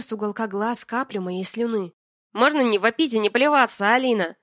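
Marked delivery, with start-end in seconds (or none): 2.3-4.4 louder, exasperated plea; irritated complaint. Acted. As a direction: tell her to stop yelling. Миша раздражённо просит.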